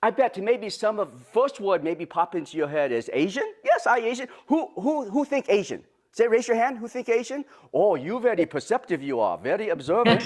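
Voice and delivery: very bad put-on Japanese accent; hammed-up Japanese accent with dropped grammar; Mister Miyagi. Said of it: "my very bad Mister Miyagi accent".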